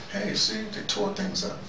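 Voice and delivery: ordinary delivery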